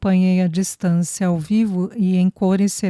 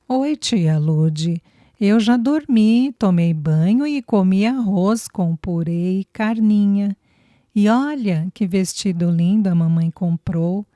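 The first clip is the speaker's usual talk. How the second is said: lightly voiced excited little girl; a child chattering to her aunt. Little girl telling aunt Lude about her day, light child voice.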